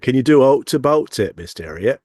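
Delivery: imitated Yorkshire TV-drama line; Yorkshire accent. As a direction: quote it in broad Yorkshire. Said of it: "words that they used in the, in Yorkshire".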